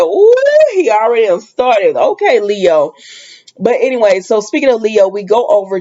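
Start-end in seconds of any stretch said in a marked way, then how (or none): 0.0-2.9 impressed ooh. Real, not acted. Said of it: "I said".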